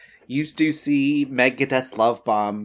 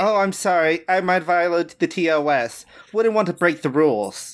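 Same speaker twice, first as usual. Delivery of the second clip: mock apology; 5 semitones higher than usual. Villain mocks the hero's scolding.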